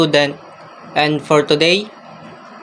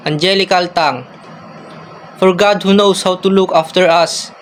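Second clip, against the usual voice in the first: measured recital in short, paused phrases; formal, mildly lilting verse reading; poem recitation. Acted. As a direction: recite it line by line, evenly.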